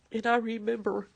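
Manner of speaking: overwhelmed with gratitude; loud, emotional. Real, not acted. Mother recalls son's survival.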